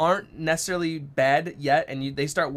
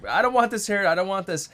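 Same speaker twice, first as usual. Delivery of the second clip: put-on high, louder whining child voice; whiny upset daughter; 6 semitones higher, 4 dB louder than usual. Dad imitating teary daughter who hates purple hair, high whine. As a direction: whine it like a teary kid refusing her hair. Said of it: "then she's like".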